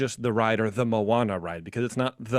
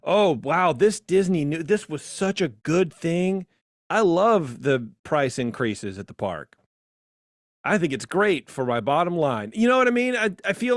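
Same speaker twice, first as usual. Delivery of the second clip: gushing fan parody; 5 semitones higher than usual. Retold or imitated. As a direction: ham up a fawning fan. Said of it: "how boring would it be if all we did was".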